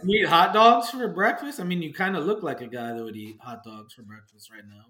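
talking around a lollipop; sucking a lollipop. Real, not acted. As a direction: lollipop in mouth while talking. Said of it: "while I'm sucking on my lollipop".

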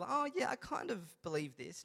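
soft, noncommittal imitation; mock half-hearted. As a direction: imitate a lukewarm shrug of agreement. Mimics people with mediocre convictions.

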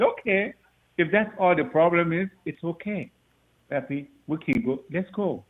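quietly telling his son it's fine; soft reassurance. Retold or imitated. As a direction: hush it down to comfort him. Father soothing son, retold.

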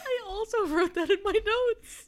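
slow, laughing through the words. Real, not acted. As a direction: giggle while saying it. Laughing at shared note.

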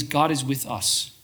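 slow, soft, steady repetition; a quiet prayerful phrase, slowed; calm mantra. Shown as a demonstration. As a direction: say it gently like a mantra. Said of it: "that one phrase I wanna invite you to think of is".

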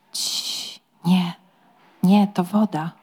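unvoiced shushing; whispered hush. Shell-shocked lord hushing his servant in a whisper. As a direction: hush him urgently in a whisper.

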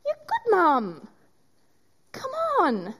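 rising high with a catch of tears; tearful encouragement. Retold or imitated. Jesus encouraging the speaker as a good mum, tearful. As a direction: urge her on while choking up.

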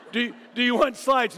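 loud insistent asking; pushy Dean. Retold or imitated. Dean pressing the preacher on slides, loud and insistent. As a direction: press him loudly about slides. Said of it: "Dean's like".

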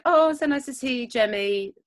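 high-pitched mock mother's welcome; imitated fond greeting. Mother welcoming her little boy back, imitated fondness. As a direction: coo it lightly, falling on the name.

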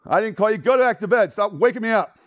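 high, loud acted exasperation; irritated scolding. Old man woken twice scolds the boy, loud and irritated. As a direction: send the pest away crossly.

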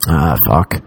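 low, resigned mock groan; deflated. Texter finding no rapport off Instagram, low deflated swearing. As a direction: drop the pitch in mild dismay.

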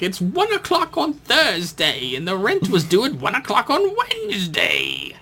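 high scolding Irish landlady; old Irish lady voice. Retold or imitated. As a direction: nag about late rent, Irish accent. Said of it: "She's like".

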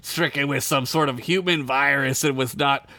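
lightly voiced Gorn, deliberate delivery. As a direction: read it as a pompous alien reptile. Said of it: "you do a Gorn voice this time".

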